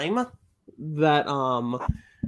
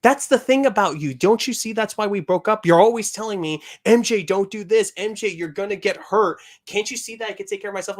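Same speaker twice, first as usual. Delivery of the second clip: exasperated, louder rant with raised pitch; acted exasperation; 4 semitones higher, 5 dB louder than usual. MJ arguing with Peter on a phone call, acted exasperation. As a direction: play a fed-up girlfriend arguing.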